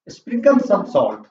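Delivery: slow dictation. Shown as a demonstration. Teacher dictating the English sentence.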